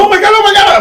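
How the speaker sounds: high, panicky squeal; high mock panic; panicked Paulie. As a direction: mimic a freaked-out promoter. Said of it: "Paulie's freaking out like a little bitch".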